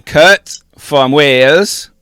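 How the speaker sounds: put-on botched Welsh accent drifting towards Indian; slow, loud, bad Welsh accent; terrible Welsh accent. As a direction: attempt Welsh and miss, landing near Indian. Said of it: "That accent was terrible".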